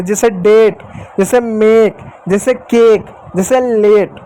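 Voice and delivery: डेट, मेक, केक, लेट each with a clear ए sound; pronouncing the a in name. Shown as a demonstration. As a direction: list each example word crisply. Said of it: "ए की मात्रा पढ़े".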